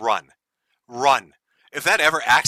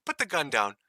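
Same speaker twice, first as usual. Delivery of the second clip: hushed, much softer mock scolding of a bad dog; 5 dB quieter than usual. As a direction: talk down to a puppy that peed on the carpet. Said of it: "sounds like he's trying to train a dog".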